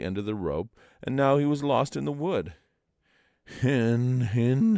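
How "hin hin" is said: groaning. A narrator's reading. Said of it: "he groaned".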